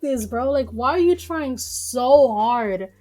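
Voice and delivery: exasperated shout. Real, not acted. Vlogger ranting about the abortion law, exasperated shouting. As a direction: shout it like you can't believe people.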